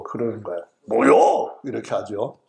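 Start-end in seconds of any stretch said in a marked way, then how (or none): 0.9-1.6 louder, slightly raised 뭐요; annoyed Chungcheong retort. Retold or imitated. Preacher mimicking an angry Chungcheong local, mock irritated 뭐요. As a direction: snap back a touchy 뭐요. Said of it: "화가 났을 때".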